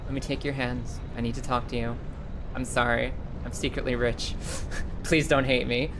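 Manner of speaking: low, gently earnest imitation; mock solemn confession. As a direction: confess it gravely, as if playing a drama scene. Acting out his solemn confession.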